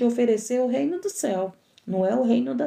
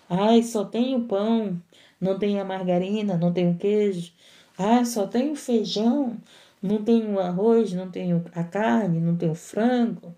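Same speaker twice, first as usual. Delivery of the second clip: mock grumbling. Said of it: "tá murmurando".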